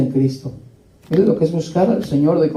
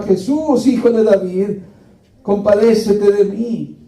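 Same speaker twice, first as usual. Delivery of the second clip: noch lauter gerufen; 2 semitones higher, slower than usual. Retold or imitated. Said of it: "Y más gritaba".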